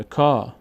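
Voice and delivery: کا with a held "aa"; long vowel. Shown as a demonstration. Teacher showing kaf before alef, long vowel. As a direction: stretch the aa in کا.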